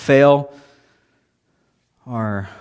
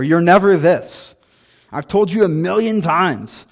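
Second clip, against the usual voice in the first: put-on high, loud, fast nagging at the kid; scolding parent; 6 semitones higher, 7 dB louder than usual. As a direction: rattle off blame like an exasperated parent. Acting an exaggerating, scolding parent.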